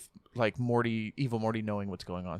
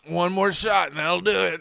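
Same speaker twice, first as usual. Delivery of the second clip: louder, higher eager mock actor; 6 semitones higher, 7 dB louder than usual. Retelling drunk voice actor's plea, eager louder. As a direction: hype up one more shot. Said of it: "He's like".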